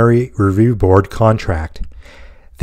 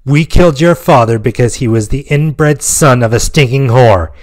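wicked sneer; 3 semitones higher than usual. Acted. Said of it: "face twisted into a wicked grin".

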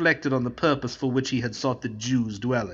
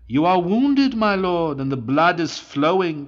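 alarmed cry; 5 semitones higher, 4 dB louder than usual. A narrator's reading. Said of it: "cried Stefano".

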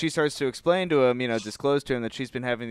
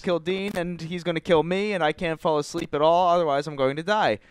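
put-on higher-pitched retelling of a worried girl; mock alarm; 4 semitones higher than usual. Girl telling boyfriend about the shared killer dream, mock alarm. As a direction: act out mild panic, pitched up. Acting out her dream panic.

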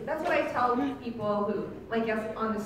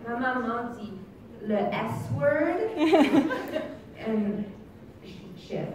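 put-on French child; 7 dB louder, slower than usual. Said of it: "he said it in French".

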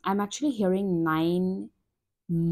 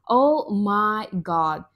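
amazed; 5 dB louder, much slower than usual. Real, not acted. Reader awed by the cards.

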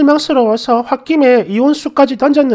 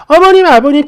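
어머님, 아버님 shouted louder with a rise; wife yelling 어머님, 아버님 at husband on phone; retold shout; 3 semitones higher, 6 dB louder than usual. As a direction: call out 어머님, 아버님 in exasperation. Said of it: "고래고래 소리를 질러버렸어요".

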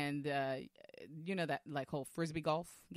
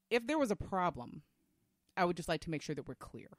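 measured, firm teacher voice; authoritative mom voice. Retold or imitated. Mother confronting two men about her kids, authoritative. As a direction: make it clear you expect an answer. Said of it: "I immediately used a different tone of voice".

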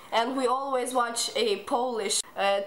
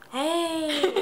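loud hey; 6 semitones higher than usual. Shown as a demonstration. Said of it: "I always do this".

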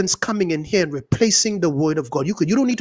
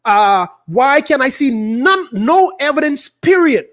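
higher-pitched indignant demand; heated challenge; 4 semitones higher, 4 dB louder, slower than usual. Real, not acted. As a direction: fire off the names, then demand proof, exasperated. Heated rant against seed preachers.

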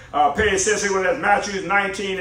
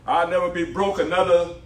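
rising to a loud declaration; zealous convert; 2 semitones higher, 5 dB louder than usual. Real, not acted. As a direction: proclaim it with fiery conviction. Preacher declares against being broke.

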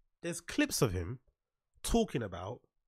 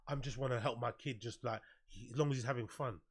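mock parent excuse; 3 semitones lower, 11 dB quieter than usual. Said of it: "Stop with the".

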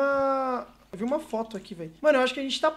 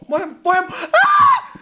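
panicking gamer; 4 semitones higher, 3 dB louder, faster than usual. Real, not acted. Chased by monster in game.

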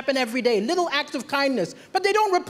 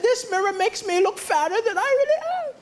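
mildly upset, higher-pitched complaint; upset woman; 5 semitones higher than usual. Retold or imitated. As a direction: complain in a higher voice, rising towards the end. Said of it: "British woman looking at a mirror upset".

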